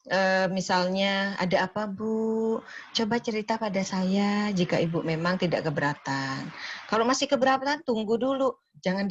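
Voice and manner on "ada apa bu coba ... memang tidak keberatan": gentle therapeutic. Shown as a demonstration. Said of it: "harus ada konsep terapeutik".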